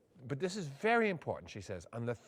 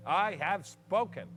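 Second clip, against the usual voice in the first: drawn-out formal I have spoken; slow it right down, ceremonial; slow solemn closing; slower than usual. Acted. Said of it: "his own ceremonial close".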